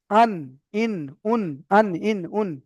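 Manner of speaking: আন, ইন, উন one by one, ringing final n; articulation drill. Shown as a demonstration. Teacher models the nun, separate syllables আন, ইন, উন ending in held n. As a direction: drill আন, ইন, উন with tongue tip on the upper palate. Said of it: "ওই সোজা উপরের তালুর সঙ্গে লাগবে".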